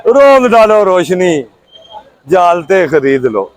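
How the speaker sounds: measured, declaimed Urdu verse with falling line ends; rhythmic protest poetry; poem recitation. Acted. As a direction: recite it line by line, pausing after each.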